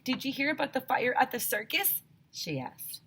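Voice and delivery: lively read-aloud for a class; story reading. A narrator's reading. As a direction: read the chapter to the kids with expression. Teacher reads story aloud.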